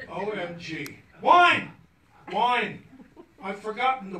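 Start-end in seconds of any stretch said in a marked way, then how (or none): 1.2-1.7 a high, loud cry of panic; sudden shout. Retold or imitated. Sudden realisation he forgot wine. 2.3-2.8 laughing repeat. Retold or imitated.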